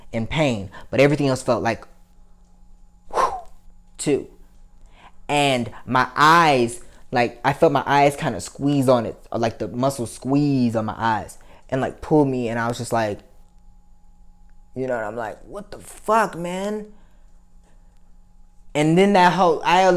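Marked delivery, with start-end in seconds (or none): 3.1-3.3 quick blown whew; airy, wordless exhale. Retold or imitated. Imitates the hollow feeling. 15.4-16.9 high, soft disbelieving plea; retold disbelief, pitched up and quiet; stunned disbelief. Retells stunned disbelief at the news.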